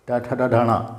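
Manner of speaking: ट, ठ, ड, ढ, ण sounded separately; sounding out letters. Shown as a demonstration. Teacher reciting the ट row for students, letter by letter. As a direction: tick off ट, ठ, ड, ढ, ण one at a time. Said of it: "मूर्धा".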